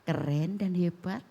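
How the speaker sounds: gentle praise. Pretend. Mother speaking gently to her child, lightly voiced. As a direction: coax the child kindly. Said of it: "Ya ngomong".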